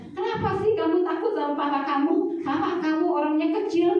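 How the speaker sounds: mildly incredulous retold question; puzzled husband. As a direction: imitate a husband lightly questioning a needless fear. Retells husband's puzzled, teasing question.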